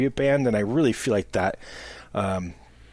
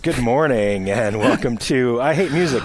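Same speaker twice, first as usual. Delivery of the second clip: bright, pitched-up, louder morning-show opener; radio announcer voice; 4 dB louder, slower than usual. Acted. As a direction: greet the listeners like a morning radio host. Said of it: "he gets into, like, the announcer mode".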